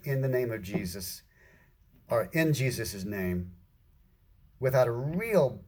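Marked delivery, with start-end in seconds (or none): 0.0-1.2 softer, offhand imitation; casual. Christians closing with a familiar phrase, casually imitated. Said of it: "have been casually saying". 2.3-3.5 low, softer, offhand imitation; casual. Christians using the phrase without understanding, casually imitated. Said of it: "have been casually saying".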